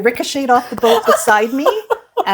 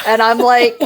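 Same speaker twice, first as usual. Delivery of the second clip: normal talking voice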